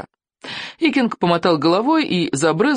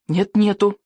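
put-on higher boyish retort; stubborn boy; 4 semitones higher than usual. A narrator's reading. Boy squabbling with the chieftain, high stubborn retort. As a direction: answer back in the high voice.

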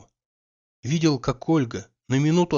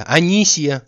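louder, higher second call; calling out again; 3 semitones higher, 6 dB louder, slower than usual. Acted. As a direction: call her name more urgently. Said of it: "закричал Обломов".

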